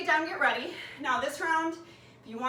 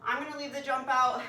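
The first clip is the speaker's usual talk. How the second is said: winded after burpees; out of breath. Real, not acted. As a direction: talk while catching your breath. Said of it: "I'm already winded".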